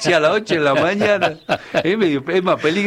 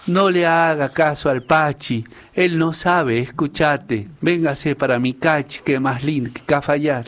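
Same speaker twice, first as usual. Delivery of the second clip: verse recital; 2 semitones lower than usual. Acted. Cacheño performs his 25 de mayo lines for the hosts, reciting verse. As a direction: recite a homemade folk verse. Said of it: "le he hecho unas líneas".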